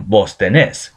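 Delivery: vos tenés said slowly with stress on the last syllable; voseo demo. Shown as a demonstration. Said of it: "tener becomes tenés".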